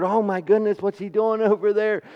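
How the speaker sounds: imitated worry, stumbling over the words; worried mother. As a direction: act out a fretting mother, a touch flustered. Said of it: "she was so scared".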